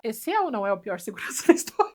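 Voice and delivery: amused rhetorical jab, breaking into a laugh. Real, not acted. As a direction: laugh midway through the question. Ri do segurança do filme. (rindo no meio da pergunta)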